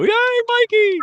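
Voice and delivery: high, loud teasing cheer; mock cheer. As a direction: cheer him on like a child. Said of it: "so you can go".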